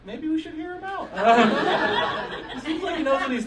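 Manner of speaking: high, hushed mock-serious barfly; a drunk regular suddenly taking it seriously; mock bar patron. Barflies changing their minds about the fish story, high mock voice.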